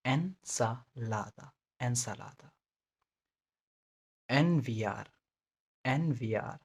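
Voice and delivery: ensalada stretched out syllable by syllable, the first e said as a clear ए; very slow demo. Shown as a demonstration. Teacher slowing down so learners hear every sound. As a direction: drag out each syllable of ensalada. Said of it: "Spanish के ई को ए बोलते हैं".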